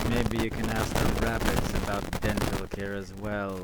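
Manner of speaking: crunchy, bitcrushed audio; digitally crunchy bitcrushed line. Real, not acted. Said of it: "you sound very crunchy today".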